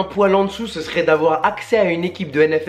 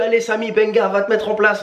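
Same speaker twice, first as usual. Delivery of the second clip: mildly mock yell, pitched higher; retold coach yelling; 4 semitones higher than usual. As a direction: imitate an impatient coach without real volume. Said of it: "il me crie dessus". (imitation légère du coach qui crie)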